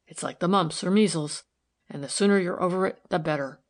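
lightly voiced rustic philosopher, twinkling; a hint of a plain-spoken country man; homely workman. Workman sharing homely advice with a lady, wry. Narrator voices Batson in dialogue.

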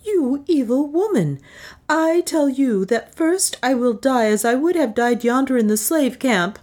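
high-pitched, indignant refusal. A narrator's reading. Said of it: "her indignation was too great".

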